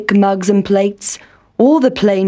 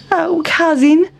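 high squeaky mouse voice; Town Mouse; 8 semitones higher than usual. A narrator's reading. Town Mouse addressing his cousin, high and squeaky. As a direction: speak as a fussy little mouse.

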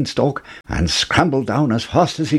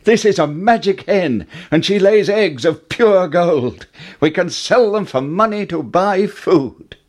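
higher, eager and bright with news; thrilled to show off his prize; excited; 7 semitones higher than usual. A narrator's reading. Jack telling his mother about the golden eggs, excited. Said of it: "Jack cried".

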